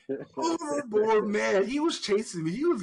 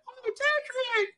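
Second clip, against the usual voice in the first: calling out; slower than usual. Retold or imitated. Girlfriend calls out to boy.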